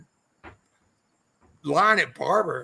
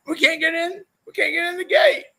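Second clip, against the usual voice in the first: high whiny mock complaint, louder at the end; mock complaining crowd; 12 semitones higher, 4 dB louder than usual. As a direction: whine it like the stuck crowd at the gate. People voiced complaining at gate.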